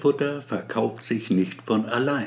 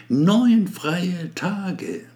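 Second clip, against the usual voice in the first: pompous speech; 3 semitones higher than usual. Acted. Abramski's speech to staff.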